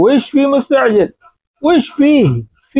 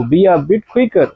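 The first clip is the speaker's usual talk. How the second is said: slow and clear; much slower than usual. Shown as a demonstration. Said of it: "slow English gloss".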